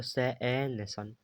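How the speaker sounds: "सन" split into सै, ए, न, then blended; sounding out. Shown as a demonstration. Teacher showing how u sounds in s-u-n, sounding out "सन". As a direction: give each sound of "सन" separately, then the whole word. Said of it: "यहाँ ए पढ़ा जाता है".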